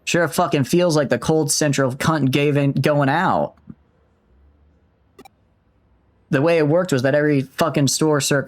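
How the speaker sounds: attempted Aussie accent, fading out; half-lost Australian accent; slipping Australian accent. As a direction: hold a shaky grip on an Australian accent. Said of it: "okay, I'm losing the accent".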